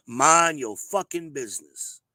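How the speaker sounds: each word pressed out slowly and firmly; slow emphatic scolding. Real, not acted. Scolding interfering women, slow and emphatic. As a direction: lay down the law word by word.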